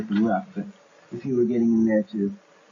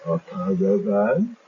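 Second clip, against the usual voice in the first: dazed brigands; 2 semitones higher, 3 dB louder, slower than usual. Acted. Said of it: "and they all go".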